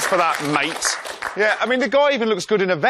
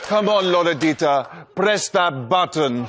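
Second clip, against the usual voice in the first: Marco impression; 3 semitones lower than usual. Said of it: "it's me, Marco".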